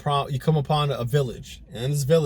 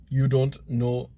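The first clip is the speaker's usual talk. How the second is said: South African attempt that comes out Jamaican; half-Jamaican take on South African; attempted South African accent; slower than usual. Shown as a demonstration. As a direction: drag it out in a shaky stab at a South African accent. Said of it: "That's still Jamaican".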